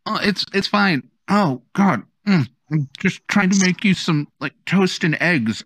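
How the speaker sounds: high, flustered aunt voice; squealing baby talk aunt. Acted. Frazzled Aunt Violet voiced.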